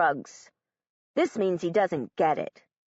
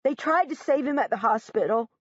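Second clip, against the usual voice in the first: mild yell; 4 semitones higher than usual. Acted. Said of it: "Josh yells".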